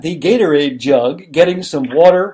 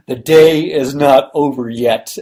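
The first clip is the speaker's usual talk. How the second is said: Jack Palance voice. Retold or imitated. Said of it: "in Palance's voice".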